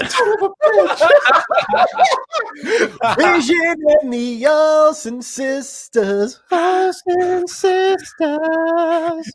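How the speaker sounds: high, laughing repeat, slow; cracking up while saying it. Real, not acted. Laughing at the joke.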